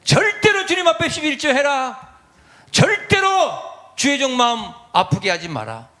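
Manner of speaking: quoting a strict mother, high and insistent; firm parental command; stern mother. Retold or imitated. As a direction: lay down the law like a mother.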